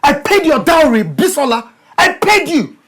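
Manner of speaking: husband ranting about the dowry he paid; angry rant. Acted. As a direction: throw the dowry in her face. Husband shouting in marital quarrel.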